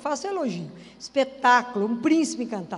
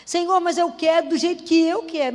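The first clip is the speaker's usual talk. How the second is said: louder, insistent plea to God; demanding prayer; 3 semitones higher, 6 dB louder than usual. Retold or imitated. Believer insisting to God on her own way, loud and demanding. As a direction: push your own will at God, loud. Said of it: "A gente até dá sugestão pra Deus".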